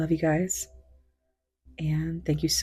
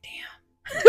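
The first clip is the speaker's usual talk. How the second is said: a hushed, amused damn; laughing whisper; 10 dB quieter than usual. Retold or imitated. No picture of the room, laughing whisper to viewers.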